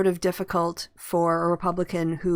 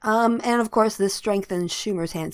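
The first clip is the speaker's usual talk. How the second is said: talking with a mouth full of popcorn; munching popcorn; 3 semitones higher than usual. Real, not acted. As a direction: chew popcorn between words. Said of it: "Sorry, I'm eating popcorn".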